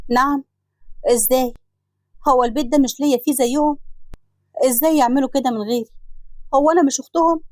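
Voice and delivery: acted hurt protest, pitch climbing at the end; shocked indignation. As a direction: demand answers, wounded and indignant. منى تُصدم ببيع البيت. (استنكار مصدوم ومجروح)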